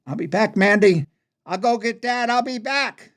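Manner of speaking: high, urgent shout climbing in pitch; yelling to her. Acted. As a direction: shout a promise across a distance. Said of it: "and I yelled to her".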